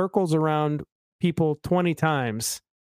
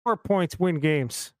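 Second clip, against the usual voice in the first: terse mock Chicago football talk; Chicago accent slipping toward Pennsylvania; 3 semitones higher, slower than usual. Shown as a demonstration. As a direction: bluster like a Chicago fan. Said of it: "now you're going into little Pennsylvania".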